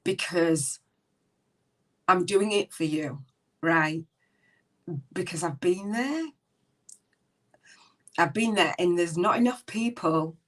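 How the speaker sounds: speaking through real tears. Real, not acted. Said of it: "I'm not gonna apologize for the tears".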